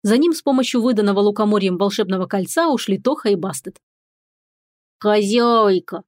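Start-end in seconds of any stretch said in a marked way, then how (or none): 5.0-6.0 cat calling. Acted. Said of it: "позвал кот".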